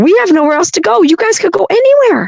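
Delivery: mock very high, far-carrying yell. Retelling yelling at them to leave: imitating own yelling. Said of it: "talking to 'em and yelling at them".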